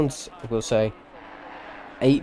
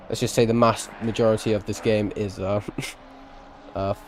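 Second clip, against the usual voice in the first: tongue-tied, halting; stumbling over words. Real, not acted. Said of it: "Wow, I can't speak".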